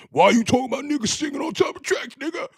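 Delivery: high, disbelieving retort; incredulous heckler. Retold or imitated. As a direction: fire back in disbelief. Imagined heckler.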